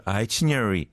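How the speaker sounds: itinerary run together, syllables blurred; slurred pronunciation. Shown as a demonstration. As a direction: say itinerary loosely, smudging the middle. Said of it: "이런 식으로 했었군요". (itinerary를 뭉뚱그려 발음)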